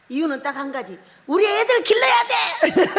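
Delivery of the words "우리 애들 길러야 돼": high-pitched mock bawling; hammed-up tearful wail. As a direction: wail it in protest, playing up the crying. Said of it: "그렇게 울고 있는 거예요". (울며 떼쓰는 흉내)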